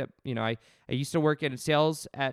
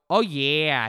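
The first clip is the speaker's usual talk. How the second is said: a light, punchy "Oh, yeah" with the oh hit louder and a falling end; a touch louder Jersey Shore catchphrase, lightly imitated; mock gym-bro swagger on "Oh, yeah"; Pauly D "oh yeah"; 5 dB louder than usual. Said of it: "He would say it just like that".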